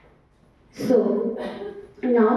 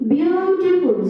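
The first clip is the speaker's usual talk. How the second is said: Beautiful pitched higher, first syllable held; stress on Beautiful; 4 semitones higher than usual. Shown as a demonstration. Teacher repeating a word stress example, Beautiful stressed. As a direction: lean on the start of Beautiful. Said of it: "So in that we are putting stress".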